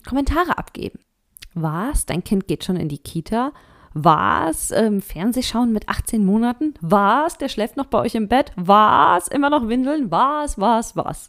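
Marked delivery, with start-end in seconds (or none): 1.6-11.3 imitating outraged busybodies, each Was? louder; hammed-up shocked Was? building louder; mock indignation. Other people judging a mother, mock outraged. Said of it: "Entrüstung der anderen".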